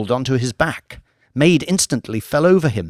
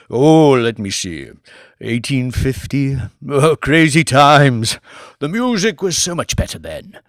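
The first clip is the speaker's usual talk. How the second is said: put-on nostalgic old lord; 4 dB louder than usual. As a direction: drift back fondly to old times. Lord Martin reminiscing.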